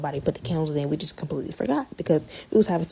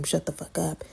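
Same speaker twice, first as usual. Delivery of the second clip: breathy unvoiced whisper of a curse; mimicking a whispered insult; mock whisper; 6 dB quieter than usual. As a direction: hiss it under your breath. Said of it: "she just told him".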